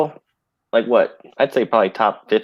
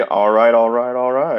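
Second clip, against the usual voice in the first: McConaughey impression; slower than usual. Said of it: "discovered McConaughey".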